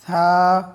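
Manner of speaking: breathy dental থা, called out; Arabic letter tha. Shown as a demonstration. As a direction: let air escape on থা. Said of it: "হালকা বাতাস বের হবে".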